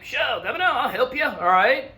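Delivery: lightly voiced eager British offer; half-hearted silly voice for the British; mock British voice. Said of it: "They're like".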